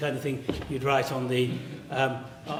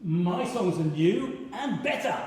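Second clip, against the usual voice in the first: defiant; 2 semitones higher than usual. Acted. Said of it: "he is very defiant".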